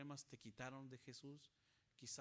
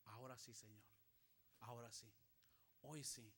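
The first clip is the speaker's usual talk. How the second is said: last-minute promise; 5 semitones lower, 4 dB quieter than usual. Acted. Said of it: "decidió hacerlo a último momento".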